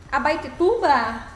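Abaetetuba spelled out slowly, syllable by syllable, a-ba-e-te-tu-ba; careful pronunciation. Shown as a demonstration. Streamer tries the name of the viewer's town, carefully sounding out Abaetetuba. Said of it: "será que eu consigo falar o nome dela?".

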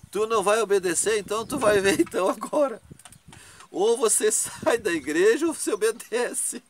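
retold threat with a laugh breaking in; angry threat. Young man threatening with stick.

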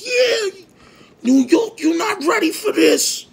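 very high, loud radio DJ shout; Flex radio hype. Retold or imitated. Radio DJ announcing a rap group to New York, loud hype shout. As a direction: hype it up like a DJ announcing a big exclusive.

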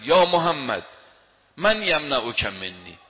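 loud shout of a threatening enemy, then slow menace. Acted. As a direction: bellow it like a swordsman over a sleeper. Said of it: "یه مرتبه بلند فریاد زد".

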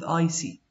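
"ic" said as one syllable, like "ick"; pronounced "ic". Shown as a demonstration. Teacher shows students the acid ending, "ic" said as one syllable. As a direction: say "ic" as a word, not letter by letter. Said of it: "It's pronounced ic".

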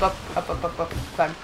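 ordinary talk, nothing marked

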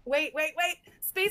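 sudden realization. Real, not acted. Gasp, sudden idea in chat.

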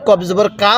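"কা" ending on an open "aa"; incorrect reading. Shown as a demonstration. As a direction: show the faulty "kaa" in "কফ জবর কা". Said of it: "পড়াটা সহি শুদ্ধ হবে না".

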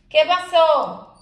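high, slow, loud coaxing "¿Qué pasó?"; drawn-out fond question. Real, not acted. Owner coaxing her whining dog Irma, high and drawn out. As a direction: stretch it out to a fussing pet.

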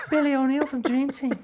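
high, loud mock shout; loud, high retold exclamation; excited fan recognition. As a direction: imitate a stranger spotting someone off the telly. Retold fan recognizing him loudly.

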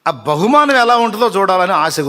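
a preacher thrilled about the coming reward; eager. Real, not acted. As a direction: burst out with eager anticipation.

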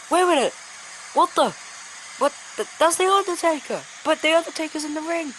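can't believe what he's seeing; surprised, rising commentary; shocked disbelief. Real, not acted. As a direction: voice jumps up in stunned surprise. Shocked second Undertaker appears.

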